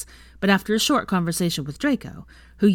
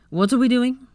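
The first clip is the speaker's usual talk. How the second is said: eager; 7 semitones higher, 5 dB louder than usual. Acted. Zabini joining in eagerly.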